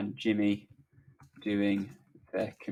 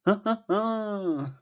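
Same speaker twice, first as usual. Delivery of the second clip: acted laugh; 10 semitones higher, 4 dB louder than usual. Jimmy's laugh in the script.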